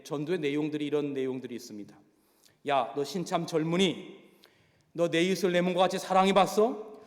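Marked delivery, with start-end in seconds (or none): 2.7-7.0 gruff mock bullying. Go Jae-bong bullies a new inmate.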